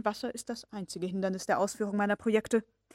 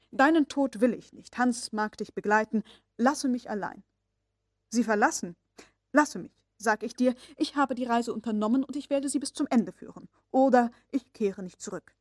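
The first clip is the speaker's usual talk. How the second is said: louder, stern and threatening; agitated, hard; 2 semitones higher, 4 dB louder than usual. Acted. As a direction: push him away with hard resolve. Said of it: "mit größter Aufregung ... hart, drohend".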